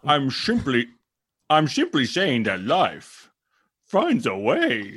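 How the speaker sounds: Bane voice. Acted. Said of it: "My Bane, right?".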